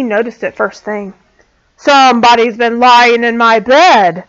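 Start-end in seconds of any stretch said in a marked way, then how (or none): 1.8-4.2 loud great big bear. A narrator's reading. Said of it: "in his great big voice".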